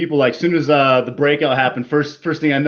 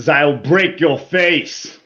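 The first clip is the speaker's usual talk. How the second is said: slow, rough attempt at Russian accent; drawn-out amateur Russian accent; much slower than usual. Shown as a demonstration. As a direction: put on a not-so-great Russian accent. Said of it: "Not that great of a Russian accent".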